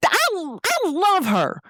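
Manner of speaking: very high, adoring squeal; gushing friend. Retold or imitated. Friend filming the graduate, high adoring gush.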